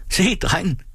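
high, excited-style cry at normal volume; narrated call. A narrator's reading. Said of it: "råbte Tine". (højt, lyst tilråb uden fuld styrke)

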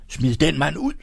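shouted order. A narrator's reading. Fink orders the hall to remove Egholm, high mild shout. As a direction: call out the order in a narrated shout. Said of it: "råbte Fink".

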